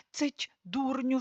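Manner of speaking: soft, slow urgent hush. Acted. Lord to the fool, hushed and slow. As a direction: hush him quickly. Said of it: "шепотить пан".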